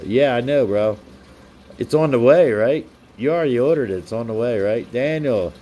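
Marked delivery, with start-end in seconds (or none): 1.8-4.0 louder, playful nudge to a friend; teasing question. Real, not acted. To the viewer whose camera is coming, teasing. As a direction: poke him about it cheerfully.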